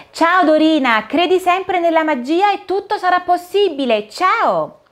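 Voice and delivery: put-on kindly Cinderella greeting a child. Cinderella voiced in story. (Cenerentola, voce dolce e gentile)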